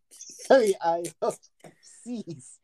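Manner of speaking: whispered quick sorry; whispering. Real, not acted. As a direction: breathe a whispered apology.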